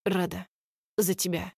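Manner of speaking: hoarse barely voiced rasp. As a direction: croak it out soundlessly. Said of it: "хриплю беззвучно".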